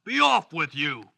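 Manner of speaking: lightly voiced troll dismissal; a hint of storybook troll; grudging troll. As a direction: give in as a troll, mildly gruff. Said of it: "said the troll".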